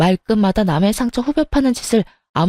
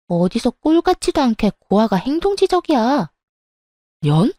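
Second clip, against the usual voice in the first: angry sister-in-law; 4 semitones higher than usual. Acted. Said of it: "동서는 욕을 섞어가며 화를 내더라고요".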